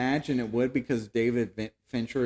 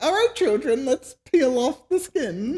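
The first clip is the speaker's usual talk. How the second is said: very high, raised, put-on old-lady granny voice; 14 semitones higher, 7 dB louder than usual. Imagining the one who asked to peel back skin as an old lady: put-on old lady voice. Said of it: "I love to imagine that's an old lady".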